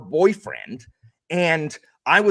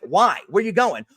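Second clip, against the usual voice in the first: teacher voice; 4 semitones higher, 4 dB louder than usual. Retold or imitated. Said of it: "That's how I talk as a teacher".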